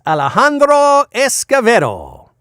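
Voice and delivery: rolling the name in a hammed Spanish accent. Shown as a demonstration. Voice actor relishes a guest name, mock Spanish accent. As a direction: savor the name with a Spanish accent. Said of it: "not do my really bad Spanish accent".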